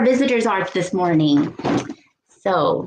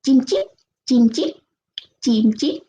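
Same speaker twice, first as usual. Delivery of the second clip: "chim chip" in short chirped pairs; light bird imitation in Vietnamese; 2 semitones higher than usual. Shown as a demonstration. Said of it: "they sound like this".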